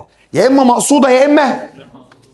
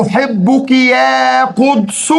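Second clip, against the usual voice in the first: tender slow call; 3 semitones higher, much slower than usual. Shown as a demonstration. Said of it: "example vocative call".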